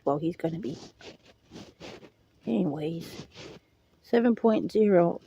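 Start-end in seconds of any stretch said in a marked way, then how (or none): 0.1-0.8 politely. Retold or imitated. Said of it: "Politely, with all due respect".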